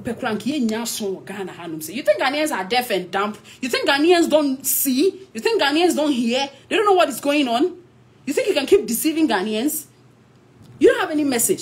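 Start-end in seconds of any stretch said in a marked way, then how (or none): 1.9-11.6 indignant. Real, not acted. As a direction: demand it of him, scornful and heated. Rhetorical anger at politician.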